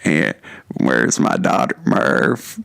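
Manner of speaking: low, loud, creaky actor drawl; Matthew McConaughey. Acted. Co-host as astronaut father seeking daughter, low hammy drawl. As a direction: growl it in hammed-up movie drawl. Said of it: "Matthew talks like this".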